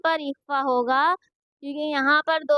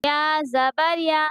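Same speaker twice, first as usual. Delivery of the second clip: slow, level-pitched syllable chant; measured qaida recitation for learners to copy; Quranic spelling drill; much slower than usual. Shown as a demonstration. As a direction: spell out each syllable with drawn-out vowels.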